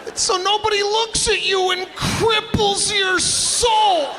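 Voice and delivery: mock frantic shout. Explaining evil eye to his date, hammed-up shout. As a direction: blurt it out like it's obvious.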